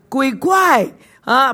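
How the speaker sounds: slow, drawn-out scared cry of ghost; frightened cry. Acted. Disciples on the boat, terrified cry. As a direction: cry out as if you see a ghost. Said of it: "便害怕".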